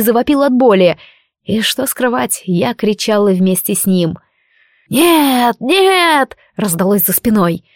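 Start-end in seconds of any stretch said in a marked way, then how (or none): 4.9-6.4 terrified shriek. Acted. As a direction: shriek it as the voice breaks. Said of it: "Голос сорвался на визг".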